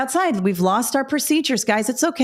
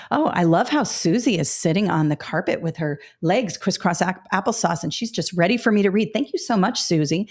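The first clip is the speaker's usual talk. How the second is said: sweet elementary praise. Shown as a demonstration. Teacher praising a child sitting on the rug, sweetly. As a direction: coo it like a kind teacher at story time. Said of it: "you're like".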